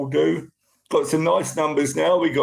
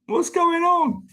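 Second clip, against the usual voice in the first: puzzled teacher; slower than usual. Retold or imitated. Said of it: "They probably thought".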